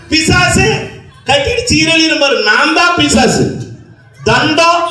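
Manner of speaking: each insult word called out high; mock explaining insults. Mother re-explaining the insults to her child, playful. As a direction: fling each name, then twist it into a joke.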